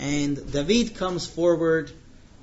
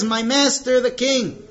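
louder, raised call across to the king; 5 semitones higher, 5 dB louder than usual. Retold or imitated. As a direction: call out respectfully after him, loud. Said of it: "he calls out".

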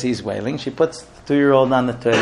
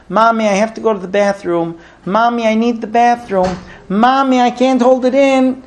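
put-on a small child pleading with mounting urgency, higher and higher; urgent toddler; 7 semitones higher than usual. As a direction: beg Mommy like a toddler who can't wait. Two-year-old begs to use bathroom.

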